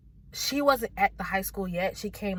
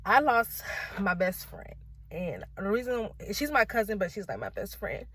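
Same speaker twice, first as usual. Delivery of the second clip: fighting tears; 3 semitones higher than usual. Real, not acted. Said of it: "I'ma try not to cry".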